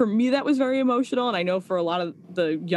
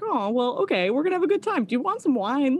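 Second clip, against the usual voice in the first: excited hostess; 7 semitones higher than usual. Retold or imitated. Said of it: "And I was like".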